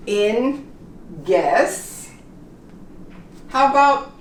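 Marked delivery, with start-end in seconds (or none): 1.3-2.1 hard G straight into the vowel of guess; silent U. Shown as a demonstration. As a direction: guess as "gess". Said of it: "the U".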